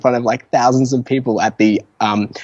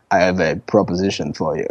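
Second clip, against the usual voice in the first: manager impression; 4 semitones lower than usual. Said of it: "try and do an impersonation of him ... really deep voice ... sounds very Russian".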